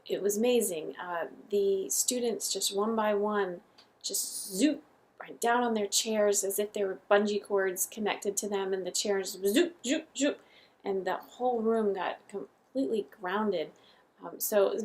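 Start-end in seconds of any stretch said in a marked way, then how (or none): 4.5-4.8 playful zoop sound effect; a quick zoop with a swoop in pitch; imitated zoop. Imitating students dropping onto chairs. 9.5-10.1 quick, playful zoop sound effects; repeated little zoops, like cartoon swoops; imitated zoop. Imitating chairs pulling students down.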